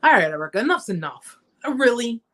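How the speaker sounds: mildly exasperated, imitated scolding; fed-up disbelief, lightly played; frustrated God. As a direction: act out someone whose patience has run out. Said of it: "even God was getting frustrated with me".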